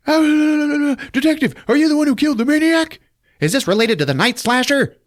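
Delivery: high, loud eager reporter voice; mock reporter. Reporters mobbing the detective, high eager voice. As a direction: pester him like a reporter.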